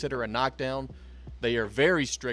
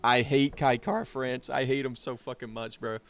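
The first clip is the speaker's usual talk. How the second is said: voice cracking. Real, not acted. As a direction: voice cracking with emotion. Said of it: "My, my voice cracked".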